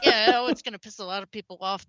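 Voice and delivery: laughing. Real, not acted. Laughing at expected backlash.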